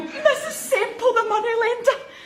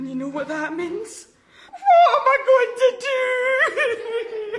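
crying; faster than usual. Acted. Fearing debt collectors.

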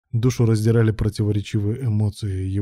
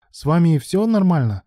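high, anxious question; worried; 7 semitones higher, 3 dB louder than usual. A narrator's reading. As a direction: ask with audible concern, pitch lifted. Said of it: "Парень выглядел обеспокоенным". (обеспокоенно)

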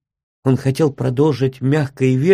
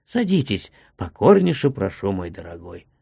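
tender; 6 semitones lower than usual. A narrator's reading. Postmaster offering his friend a seat, tenderly. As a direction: fade into a hushed endearment. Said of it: "продолжал он нежно".

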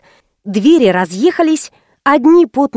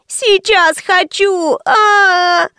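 put-on higher, slow crying child's demand; crying tantrum; 8 semitones higher, much slower than usual. Girl cries at mother, slow sobbing tantrum. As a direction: sob it out in a tantrum.

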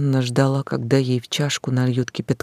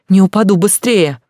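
louder, impatient; louder, urgent insistence; insistent; 5 semitones higher, 7 dB louder than usual. A narrator's reading. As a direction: hurry them along. Heroine insists.

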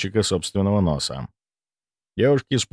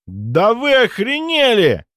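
slow, loud, high furious roar; 13 semitones higher, 4 dB louder, slower than usual. Acted. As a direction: roar in outrage. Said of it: "взревел он".

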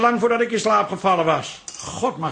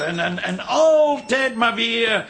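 slow, strained, rising complaint; exasperated outburst; 2 semitones higher, slower than usual. Acted. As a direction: spit out the grievance, stuttering. Exasperated outburst about father.

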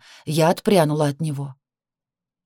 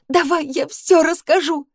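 sobbing, even higher; 11 semitones higher than usual. Acted. Girl repeating her plea through tears, higher still. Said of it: "захлёбываясь рыданиями, просипела я".

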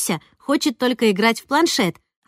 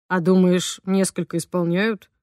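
thoughtful; 3 semitones lower than usual. A narrator's reading. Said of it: "задумчиво спросил папа".

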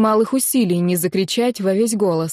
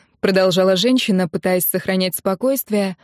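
ordinary delivery

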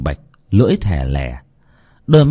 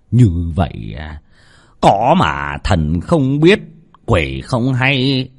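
sly gloating; 4 semitones higher, slower than usual. Acted. Master gloats over his scheme.

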